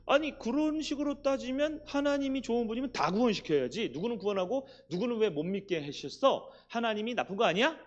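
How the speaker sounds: voiced objectors. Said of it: "그럼 유대인들이 그러죠?".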